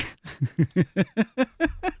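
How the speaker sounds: rising breathy laugh at herself. Real, not acted. Reader laughs after surviving the table, relieved. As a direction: laugh off the ordeal.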